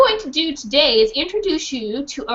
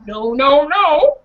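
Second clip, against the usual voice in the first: shouting no; 4 dB louder, slower than usual. Acted. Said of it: "repeat after me".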